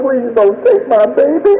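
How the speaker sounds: high-pitched anguished plea; desperate begging. Retold or imitated. Father begging God for his baby, desperate. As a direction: beg as a grieving parent.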